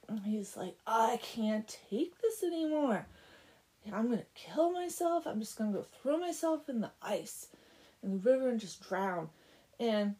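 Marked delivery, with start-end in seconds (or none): 0.9-9.3 loud, swooping mock anguish; melodramatic despair. Blacksmith telling the girl he'll drown, melodramatic despair. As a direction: wail it like a hammed-up lovesick martyr.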